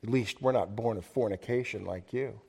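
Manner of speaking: a low, contemptuous sneer, spat out; spat out slowly. Retold or imitated. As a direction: hiss the insult out slowly and softly. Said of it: "they spit it out slowly".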